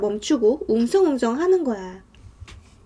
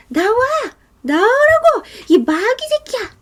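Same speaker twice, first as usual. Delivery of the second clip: high, loud, furious yell; acted screaming; 11 semitones higher, 5 dB louder than usual. Woman at the window bars demanding they come out, screaming. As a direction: scream the demand at full pitch. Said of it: "이러면서 악을 쓰고".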